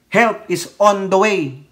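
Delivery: slow, weighty "Help is on the way" with a falling end; drawn-out "Help is on the way", each word spaced; quoting the President, slow and firm. Retold or imitated. Commentator quoting the President to his viewers, slow and firm. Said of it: "Ano ang sabi ng Pangulo".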